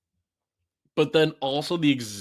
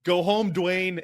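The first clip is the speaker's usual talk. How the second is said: mock yell at Dwayne; 4 semitones higher, 4 dB louder than usual. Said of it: "They're like".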